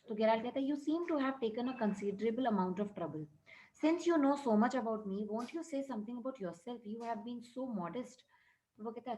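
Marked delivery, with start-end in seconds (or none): 0.7-8.2 slow, deliberate reading of the English text; measured classroom read-aloud; story reading. A narrator's reading. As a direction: read each word out carefully for the class. Reads English story lines aloud.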